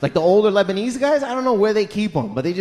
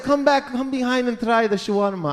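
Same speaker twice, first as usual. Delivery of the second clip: lightly voiced, higher coaxing; creepy shawarma guy; 4 semitones higher than usual. Shawarma guy inviting girl behind counter, creepy coaxing. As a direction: coax her in a raised voice. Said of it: "they're creepy with girls".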